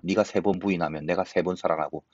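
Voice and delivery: ordinary talk, nothing marked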